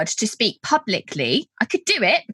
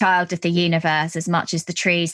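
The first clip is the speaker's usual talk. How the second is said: reciting a poem; 3 semitones lower than usual. Shown as a demonstration. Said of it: "the sentence goes".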